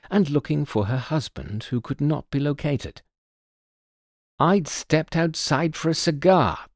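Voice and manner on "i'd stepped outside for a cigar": curt. Acted. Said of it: "said curtly".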